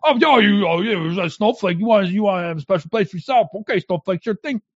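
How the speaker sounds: lightly acted sneering put-down; mock them as you brush them off; dismissive taunt. Acting out conservatives' dismissive taunts.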